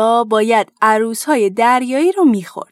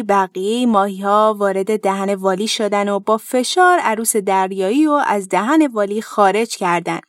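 ordinary delivery, nothing marked

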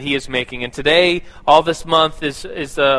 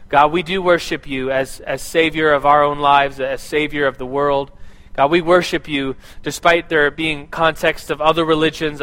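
spoken prayer; 2 semitones lower than usual. Acted. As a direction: pray earnestly for the room. Leads the congregation in prayer.

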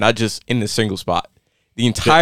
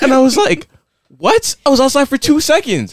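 high voice full of laughter; laughing disbelief. Real, not acted. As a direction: tell it through real laughter. Laughing at the absurd story.

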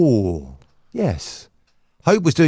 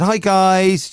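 higher, lightly imitated sweet greeting; polite, lovely; 8 semitones higher than usual. Co-host quoting Hope's group message, politely sweet. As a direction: imitate a very polite colleague saying hi. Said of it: "She's so polite. She's so lovely".

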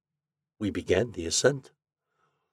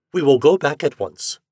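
alarmed; 5 semitones higher, 5 dB louder than usual. A narrator's reading. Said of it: "I exclaimed in consternation".

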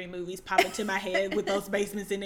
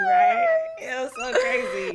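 excited; 6 dB louder than usual. Real, not acted. Excited agreement about a scary show.

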